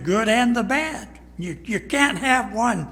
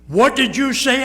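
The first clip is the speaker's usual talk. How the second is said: high, loud what did you say; husband can't believe he's refused; indignant shock; 7 semitones higher, 6 dB louder than usual. Retold or imitated. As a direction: demand it back in disbelief.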